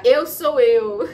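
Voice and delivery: laughing through the words; declared through a laugh. Real, not acted.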